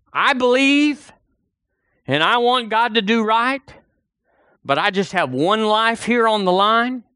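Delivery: a hint of a worried churchgoer hedging; doubting believer. Preacher voices doubting believer.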